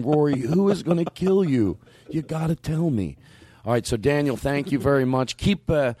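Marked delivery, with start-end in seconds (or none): 0.0-3.2 drawn-out mock plea; retold pleading question. Host picturing himself still asking at sixty, slow mock pleading. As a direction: stretch the question like a hammed-up plea. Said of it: "to be sixty going".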